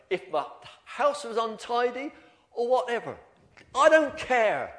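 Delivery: slow, deliberate, stressing I don't care; emphatic conviction. Retold or imitated. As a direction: lean hard on every word. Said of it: "She said".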